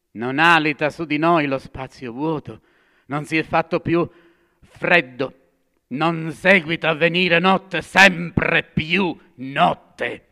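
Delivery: loud, high, building lament; rising outcry. Acted. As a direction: swell it toward the night.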